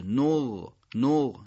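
نغ with a long, continuous gh; drawn-out ghayn. Shown as a demonstration. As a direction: let the end of نغ stretch on the ghayn. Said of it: "اون دوست داره کشیده تر باشه". (نغ با غینِ کشیده)

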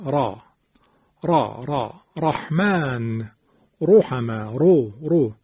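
thick, full R in را، رحمن، رحمه، رو; heavy R. Shown as a demonstration. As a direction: model the heavy R of را and رو for students. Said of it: "رو، تفخیم". (را و رو با تفخیم و درشت)

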